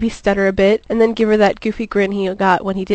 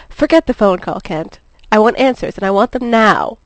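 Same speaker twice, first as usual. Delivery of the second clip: demanding; 2 semitones higher, 4 dB louder than usual. Acted. Lois demanding answers.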